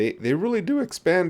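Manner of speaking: very high, cracking voice. Speaking to listeners, the speaker's voice cracks mid-sentence: voice cracking. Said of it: "my voice cracked there".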